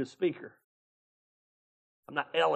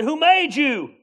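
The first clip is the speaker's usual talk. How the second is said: higher, louder ask; God's demand; 9 semitones higher, 8 dB louder, slower than usual. Retold or imitated. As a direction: echo God's question. God's question repeated.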